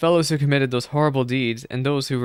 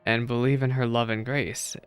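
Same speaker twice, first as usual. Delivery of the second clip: calm wise elder. Acted. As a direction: gently reassure the lost soul. Reading a wise priest's counsel.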